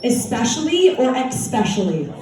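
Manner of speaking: "especially" said first correctly, then as "ex-specially"; two pronunciations. Shown as a demonstration. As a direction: add an X sound: "ex-specially". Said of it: "said this on the air".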